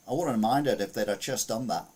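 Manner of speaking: put-on Aussie homeowner voice; Australian accent. Host quoting the house's owner, put-on Australian accent. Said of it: "This is my Australian accent again".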